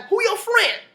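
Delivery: loud, high imitated demand; mock-aggressive shouted question; confronting brother. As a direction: call it out as a nosy brother.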